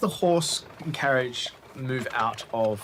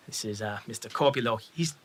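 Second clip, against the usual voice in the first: nervous. Acted. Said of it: "George looks very nervous".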